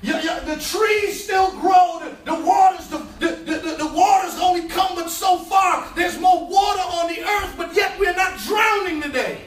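preaching at full force. Acted. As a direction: ride the wave of the sermon. Preaching climax, shouting.

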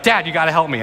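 mild imitation of a scared child's plea; a hint of a panicking boy calling for his dad; panicked kid. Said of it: "the panic is in his voice".

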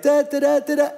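sung "da da da" at high pitch; a sarcastic little fanfare, sung high; mock fanfare. Reacting to spilled paint.

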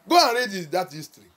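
loud, deliberate proclamation; forceful preaching. Real, not acted. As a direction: declaim history from the pulpit, pausing between phrases. Preaches history to congregation forcefully.

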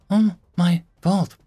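loud, high tearful wail; slow, high, broken-hearted cry; weeping. A narrator's reading. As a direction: sob out the blame, drawn out. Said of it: "she started to weep".

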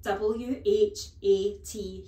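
squealed. Acted. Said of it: "he squealed".

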